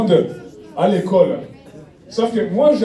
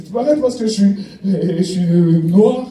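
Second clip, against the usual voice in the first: mock African accent. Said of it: "Il va se faire arrêter par la police".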